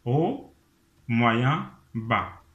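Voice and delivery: walk the pitch down three steps; descending staircase. Shown as a demonstration. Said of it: "faisons un escalier descendant".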